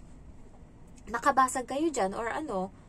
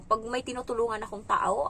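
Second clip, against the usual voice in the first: ordinary delivery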